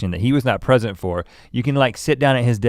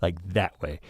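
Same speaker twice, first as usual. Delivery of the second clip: quiet voice; 3 semitones lower, 8 dB quieter than usual. Shown as a demonstration. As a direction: keep it low so the germs stay in. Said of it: "Speak in a quiet way".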